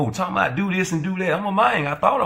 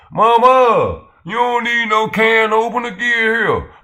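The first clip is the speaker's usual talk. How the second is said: loud, high mama shout; mock mama call; 7 semitones higher, 6 dB louder, slower than usual. His mama calling him over to open cans, loud and high. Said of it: "D Free's mama calling him".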